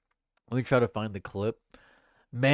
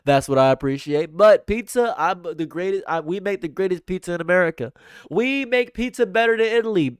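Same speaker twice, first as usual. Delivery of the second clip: louder, higher boastful politician impression; Donald Trump; 5 semitones higher, 5 dB louder than usual. Streamer as Trump bragging about pizza, emphatic rambling impression. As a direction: escalate the rambling brag with punched phrases. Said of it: "That was such a good Trump".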